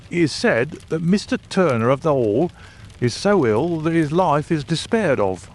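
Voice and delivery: a self-assured detective delivering news; Lestrade the police inspector. A narrator's reading. Lestrade voiced by narrator.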